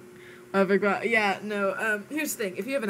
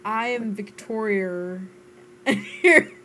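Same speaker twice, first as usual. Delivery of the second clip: slow, hesitant go at Australian, breaking into laughter; attempted Australian accent; 4 dB louder than usual. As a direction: try an Australian accent and crack up. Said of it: "try to do an Australian accent".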